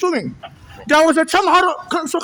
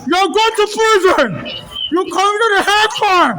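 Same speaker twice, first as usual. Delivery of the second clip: angry shouting. Real, not acted. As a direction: shout the protest. Shouting protest at officers.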